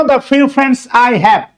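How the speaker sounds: the few friends I have, read out very slowly word by word. Shown as a demonstration. Teacher to class, reading the example slowly. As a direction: read the phrase slowly for students to copy. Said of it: "teacher reads the example phrase".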